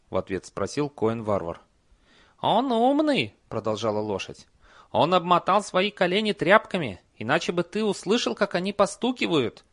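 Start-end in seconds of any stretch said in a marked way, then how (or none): 2.4-9.7 high, loud horse voice. Acted. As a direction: squeal it like a talking horse. Horse speaks.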